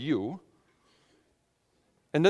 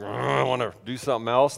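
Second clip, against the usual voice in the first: grumbling groan, low and grudging; mock crabby grumble; 5 semitones lower than usual. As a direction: groan it like a reluctant grump. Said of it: "I start off crabby about it".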